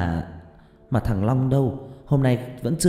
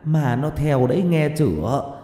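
loud, higher furious scolding; angry scolding; 6 semitones higher, 3 dB louder than usual. A narrator's reading. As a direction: berate them like a frightened, angry mother. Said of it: "hét ầm lên".

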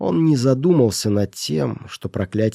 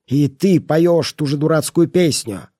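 higher, louder raging voice; angry shout; 5 semitones higher, 4 dB louder than usual. Acted. Miser shouts at the sick boy in anger. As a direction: rage at the boy. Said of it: "воскликнул он".

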